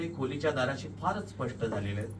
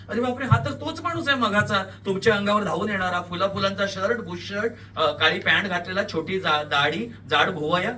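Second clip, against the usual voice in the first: louder, higher, alarmed realisation; shocked recognition; 5 semitones higher, 6 dB louder than usual. A narrator's reading. Narrator recognises the dead man, shocked. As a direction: recognise him with horror, piece by piece.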